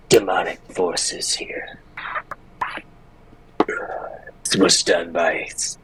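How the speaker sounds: slow, halting, half-whispered character voice; solemn divine-sensing character. Acted. Player reports on sensing for evil, slow hushed solemnity. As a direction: lightly play a grave seer, pausing between phrases.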